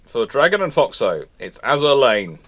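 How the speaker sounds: ordinary delivery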